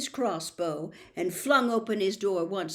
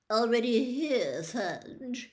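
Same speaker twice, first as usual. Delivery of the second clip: approvingly; 2 semitones higher, slower than usual. Acted. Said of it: "he said approvingly".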